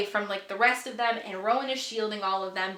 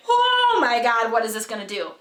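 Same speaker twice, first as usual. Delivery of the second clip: shocked excitement; 5 dB louder than usual. Retold or imitated. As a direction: relive the jaw-drop moment. Reliving shock at plot twist.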